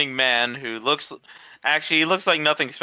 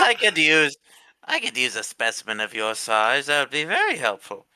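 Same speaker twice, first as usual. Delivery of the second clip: necromancer voice. Acted. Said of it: "Will's using his necromancer voice".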